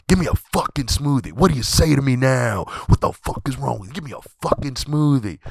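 mock the rude man barking his order; rude demand. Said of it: "And he said it just like that".

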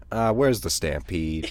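low, slow emergency operator; imitated operator. Emergency operator answering a stampede report, low imitated deadpan. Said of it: "the operator goes".

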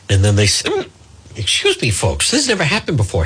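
real hiccup cuts off the sentence. Real, not acted. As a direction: break off on a hiccup, then excuse yourself. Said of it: "Hiccups while" the speaker is "on the air".

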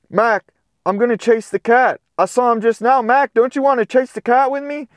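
high, eager puppy voice; excited puppy. Acted. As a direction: beg him to come play. Excited puppy wants to chase.

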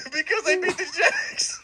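whispered aside with a laugh; voiceless high giggly whisper. Pretend. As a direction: breathe it out as a secret punchline. Mock party reason, aside.

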